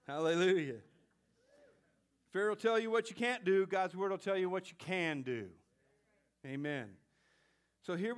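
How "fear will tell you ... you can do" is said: louder ringing proclamation; preacher repeats it full force; proclaimed. Real, not acted. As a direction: declare it boldly to the church.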